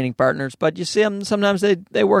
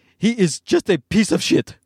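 put-on Egyptian accent, pitched much higher; 3 semitones higher than usual. Reading Hisham's texts about the incident with Beardy aloud, imitating Hisham in an Egyptian accent. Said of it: "It's the closest thing I can get to an Egyptian accent".

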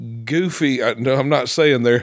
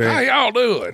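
put-on southern American accent, very high; 11 semitones higher than usual. Greeting people in a southern accent. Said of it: "has all of a sudden got a southern accent".

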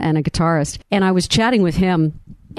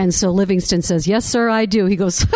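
ordinary delivery

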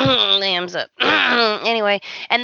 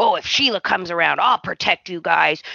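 mocking, hammed-up, boastful tough-guy bravado; 5 semitones lower than usual. Retelling a boast while mocking it: mocking imitation of Liam boasting. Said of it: "And we were making fun of him".

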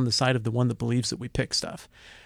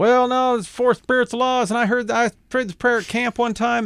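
very high, churchy, preachy voice; 11 semitones higher, 4 dB louder than usual. Imitating an evangelical who likes to fight on the internet: imitating an internet evangelical voice. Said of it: "I don't know why I made that voice".

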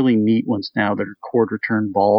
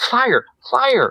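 high, gasping, panicked cry. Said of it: "she's just gasping, and she's going".

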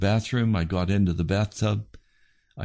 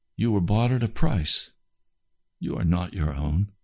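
gentle, kindly spoken voice. Retelling what God said after an outburst: quiet, kind voice. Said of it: "very quietly and kindly said to me".

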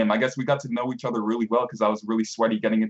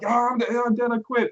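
play-acted very slow, very high, drawn-out screaming; 13 semitones higher than usual. Remembering a teammate quitting a game, retelling a teammate's scream. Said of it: "I remember him screaming like".

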